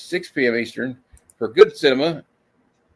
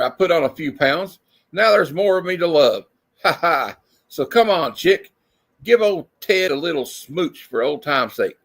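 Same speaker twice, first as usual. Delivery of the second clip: lightly voiced Ted. Voicing Ted in comic.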